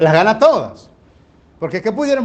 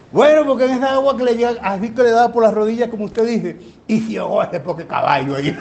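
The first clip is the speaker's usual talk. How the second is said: put-on old woman's retort; 5 semitones higher than usual. Old woman answers the man.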